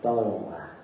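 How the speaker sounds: husband asking his wife gently to open the door; tender request. Retold or imitated.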